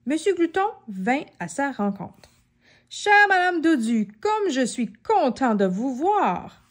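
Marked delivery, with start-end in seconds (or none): 2.9-6.6 happy greeting. Acted. Host greeting guest happily.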